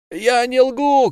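high, slow indignant shout. A narrator's reading. Fishmonger shouting at the crowd, high slow yell. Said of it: "кричал Рыбник".

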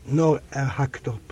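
ordinary delivery, nothing marked

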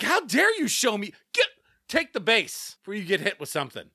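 retold indignation, starting high; heated. Host retelling his reaction to showboating batter, heated. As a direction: open high, as if confronting the batter. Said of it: "Even I was heated".

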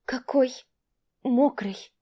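timid, high babble; babbling. Acted. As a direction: lisp it out like a flustered girl. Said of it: "пролепетала она".

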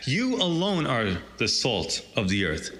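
You alone pressed as the weighted words; stress on You alone. Shown as a demonstration. Preacher stressing Greek emphasis to believers, You alone stressed. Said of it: "It's emphatic".

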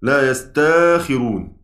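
يستاخرون slowly, hamza turned into a long a, yas-taa-khi-run; Warsh reading. Shown as a demonstration. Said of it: "على قراءة ورش". (يستاخرون بإبدال الهمزة ألفًا على قراءة ورش)

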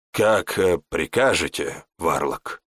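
bow and answer meekly; servile servant. Acted. Servant obeys the warlock meekly.

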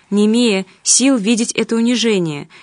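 usual speaking voice

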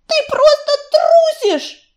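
high, slow, loud taunt; a young she-cat calling her friend a coward; scornful accusation. Acted. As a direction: spit it at him with contempt.

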